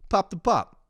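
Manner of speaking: high, punched "Pop the Pop"; mispronounced French. Retold or imitated. Stranger repeating a restaurant's name, impatient mangled French. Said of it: "mispronouncing, pronouncing the name".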